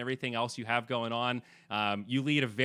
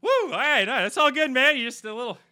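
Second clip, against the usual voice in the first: much higher and louder, flustered surprise; startled cashier; 11 semitones higher, 7 dB louder than usual. Retold or imitated. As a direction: imitate a startled clerk covering up. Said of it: "and they're like".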